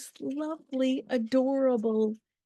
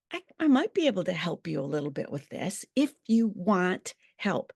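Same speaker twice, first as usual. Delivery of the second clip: gentle offer; 2 semitones lower than usual. Shown as a demonstration. Offering to help her grieving daughter, gently. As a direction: ease in kindly, no pressure. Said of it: "Can you tell the difference?".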